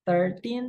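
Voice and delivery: put-on thirteen with the stress on teen, ending falling. Shown as a demonstration. Teacher shows students the number, stress on teen. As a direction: lean on the second syllable, teen. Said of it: "tinnya ini harus ditekankan".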